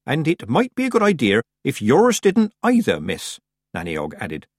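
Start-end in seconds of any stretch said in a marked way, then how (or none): 0.0-3.4 high, pointed country-woman warning; hearty old witch. A narrator's reading. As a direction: warn as a rustic old witch, dropping on the last word.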